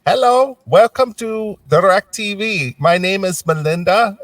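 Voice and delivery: high, slow sing-song operator voice; mock call center greeting. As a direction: put on a sugary phone-operator voice. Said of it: "she goes".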